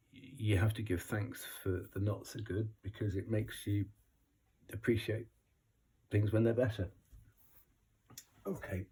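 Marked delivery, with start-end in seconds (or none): 0.1-6.9 hoarse, quiet croak; croaky voice. Real, not acted. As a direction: speak through a croaky throat. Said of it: "excuse my croaky voice".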